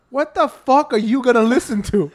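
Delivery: put-on rising, laughing disbelief at a kid; incredulous rant. To his little cousin, laughing outraged disbelief. Mocking kid's AirPods request.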